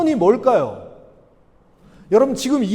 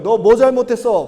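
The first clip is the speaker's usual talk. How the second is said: louder accusing question; raised-volume mock telling-off; mock reproach; 5 dB louder than usual. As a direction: act out a brief scolding. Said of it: "막 질책하기 위해서 부르신 게".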